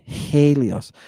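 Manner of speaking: Helios said "HAY-lee-os", h sounded; rough breathing. Shown as a demonstration. Teacher showing the class rough breathing, Helios opening on "hay". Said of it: "Rough breathing".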